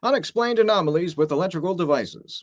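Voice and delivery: formal broadcast read; news anchor voice. Pretend. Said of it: "Can you do the whole thing like that?".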